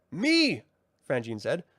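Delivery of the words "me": high, dry little sprite voice; skeptical brownie. Acted. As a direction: toss it off doubtfully. Frangine interjects.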